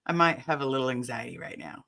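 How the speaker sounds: breathy half-whisper, voice almost gone; a shaky whispered admission; whispered confession. Retold or imitated. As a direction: let it slip out under your breath. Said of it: "I was like".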